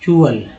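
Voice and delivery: चुअल said as "chu-al"; teacher's demo of चुअल; suffix chual. Shown as a demonstration. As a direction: say चुअल as a clear two-beat "chu-al". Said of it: "इसको बोलते हैं".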